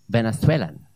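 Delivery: lisped Castilian-style Venethwelan; Spanish accent. Retold or imitated. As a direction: imitate a Welshman affecting a Spanish accent. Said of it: "That's how he'd say it".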